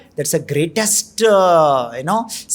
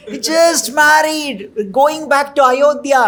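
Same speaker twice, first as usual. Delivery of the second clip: higher, slow pleading king, "just married" drawn out; pleading father; 6 semitones higher, slower than usual. Acted. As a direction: stretch "just married" as a plea. King pleading for his son.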